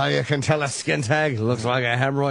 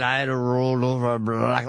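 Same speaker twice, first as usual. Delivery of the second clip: dragged words; 4 semitones lower than usual. Retold or imitated. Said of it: "he's just dragging his word".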